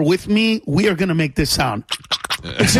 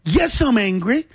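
laughing rant; 7 semitones higher than usual. Retold or imitated. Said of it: "So I said".

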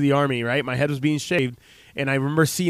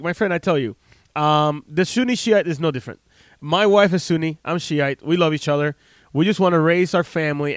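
put-on Iraqi accent. Iraqi policeman telling the soldier about his family, in a light Iraqi accent. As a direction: retell the Iraqi policeman's words with a mild Iraqi accent. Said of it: "and he had an accent".

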